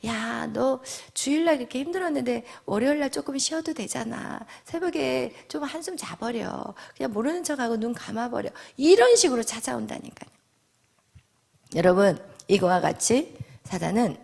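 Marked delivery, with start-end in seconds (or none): 0.0-8.5 Satan's hushed, cajoling aside; tempter's murmur. Acted. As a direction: quietly talk them into skipping. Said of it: "우리에게 속삭이는 거예요".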